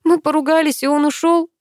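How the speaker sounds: high, tearful telling; tearful girl telling the brother; swallowing tears. A narrator's reading. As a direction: hold back tears as you speak. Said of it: "глотая слёзы".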